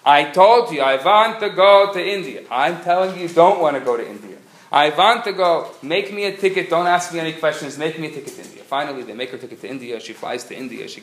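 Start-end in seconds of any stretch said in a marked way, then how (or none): 0.0-8.6 loud, insistent bickering; old lady and travel agent shouting it out; stubborn demands. Acted. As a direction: argue it out, refusing to budge. Quarrel between old lady and agent.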